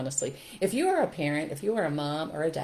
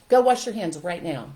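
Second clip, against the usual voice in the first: louder, barked order to wash hands; harsh command; 7 dB louder than usual. Retold or imitated. Parent ordering a kid to wash hands, harsh. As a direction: snap the order at the child. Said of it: "Okay, give me an example".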